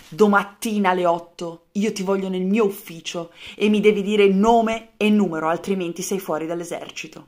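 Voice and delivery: loud stern officer's warning; stern threat. Acted. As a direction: lay down the ultimatum. Colonel threatens the soldier.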